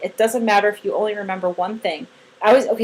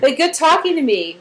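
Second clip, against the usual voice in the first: cheerful praise; 4 semitones higher than usual. Shown as a demonstration. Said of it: "you've been like".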